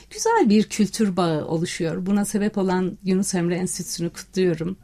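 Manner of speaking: ordinary delivery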